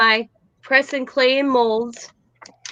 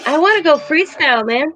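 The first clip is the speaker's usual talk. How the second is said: imitating granddaughter; 6 semitones higher, 3 dB louder than usual. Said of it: "that's how she said it to me".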